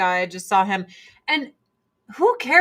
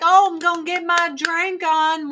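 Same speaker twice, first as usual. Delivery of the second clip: put-on party drunk voice; 7 semitones higher than usual. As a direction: play the eager drinker. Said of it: "everyone's like".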